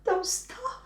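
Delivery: high, loud ooh of pleasure; delighted moan. Retold or imitated. Woman in bed urging her partner on, high and thrilled. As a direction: squeal like she's loving it. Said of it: "make her go".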